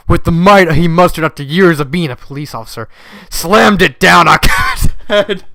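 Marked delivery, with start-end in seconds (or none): 3.3-5.4 laughing while reading. Real, not acted. Reader laughs mid-sentence.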